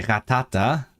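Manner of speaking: Pokémon name in a German accent. Real, not acted. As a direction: say "Ratata" with German sounds. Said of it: "I said that in a German accent".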